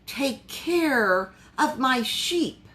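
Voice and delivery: slow and tender, near tears; tender plea. Retold or imitated. Jesus entrusting Peter with his flock, slow tender voice. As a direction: say it gently, as a heartfelt charge. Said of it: "And Jesus says".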